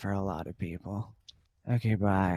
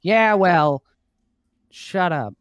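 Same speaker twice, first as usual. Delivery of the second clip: louder, higher pouting retort; sulky snap; 7 semitones higher, 10 dB louder, slower than usual. Acted. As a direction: snap back like a sulking kid. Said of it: "And Dunmere's like".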